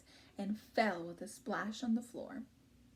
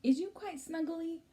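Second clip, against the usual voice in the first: lightly voiced giant, a bit higher; a hint of a giant's voice; BFG's way of talking; 8 semitones higher than usual. Shown as a demonstration. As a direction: read it in the giant's odd grammar. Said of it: "we wouldn't say".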